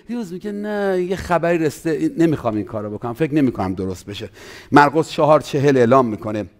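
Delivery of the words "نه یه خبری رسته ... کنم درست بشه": doubting believer. Retold or imitated. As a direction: voice the doubter losing heart. Preacher voices doubting believer.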